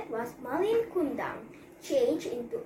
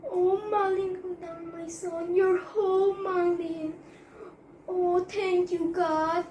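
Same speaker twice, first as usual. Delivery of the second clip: higher, bright joyful reunion voice; joyful cry; 5 semitones higher, 3 dB louder than usual. Acted. Mother greets her returning son, higher and joyful. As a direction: call out to her son, overjoyed to see him. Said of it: "cried joyfully".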